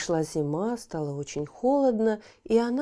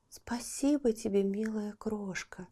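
soft whisper; 2 semitones higher, 6 dB quieter than usual. Acted. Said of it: "сказала больная ласточка".

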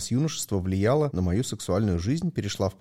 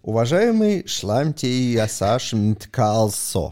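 mock polite address; 3 semitones higher, 4 dB louder, much slower than usual. Mock-polite address to rude commenter.

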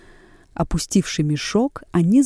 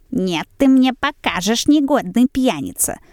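put-on raised, scolding cry at the drunkard; shouting; 5 semitones higher than usual. A narrator's reading. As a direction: shout her down. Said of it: "вскричала жена".

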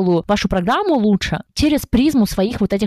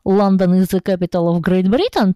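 a light mock of a heavy foreign accent in English; thick foreign accent. Mocking an unworked foreign accent, lightly imitating a thick foreign accent. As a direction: textbook English with a clumsy foreign accent, half-joking. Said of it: "И когда он такой, типа".

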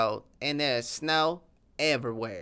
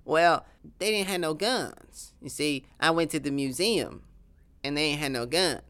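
lightly voiced Texan accent, proud of his sauce; a hint of a boastful Texas cowboy; southern accent; 4 semitones higher than usual.

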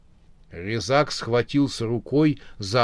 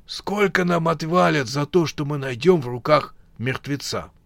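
greedy whisper, voiceless; whispered scheming; 5 semitones higher than usual. Acted. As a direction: whisper the question about the money.

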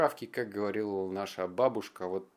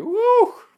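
excited whoop; 17 dB louder than usual. Retold or imitated. Energy drink rush imitated.

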